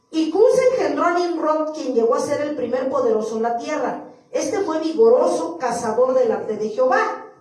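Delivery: loud, measured Bible reading; scripture reading. Acted. Preacher reading Genesis to the church, declamatory scripture reading. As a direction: proclaim the verse to the room.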